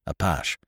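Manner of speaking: "apache" said the French way, ah-PAHSH; French "apache", two syllables, no final ee; Gallicized pronunciation. A narrator's reading. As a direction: say "apache" as French, ending in a soft sh. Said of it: "gave it its Gallicized pronunciation".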